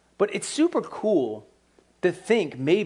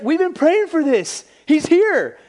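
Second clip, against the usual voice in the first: high, bright-eyed squeal of joy, much higher and louder; excited servant girl; 12 semitones higher, 6 dB louder, slower than usual. Retold or imitated. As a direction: burst out like a girl who can't believe it. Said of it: "she's so excited".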